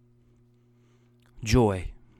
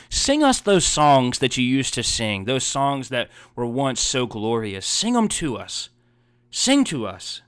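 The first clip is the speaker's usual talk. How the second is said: raised, taunting captors' voice; mocking taunt; 3 semitones higher, 4 dB louder than usual. Captors taunting the weeping Israelites, mocking demand. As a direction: sneer it up at the captives. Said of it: "Mocking them".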